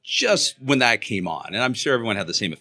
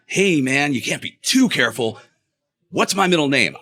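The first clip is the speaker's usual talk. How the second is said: lightly voiced paranoid pal; mock suspicion, quizzing a visitor; a hint of a wary meth-head buddy; conspiracy-theorist friend; 4 semitones higher than usual. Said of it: "sounds like the conspiracy theorist meth head friend".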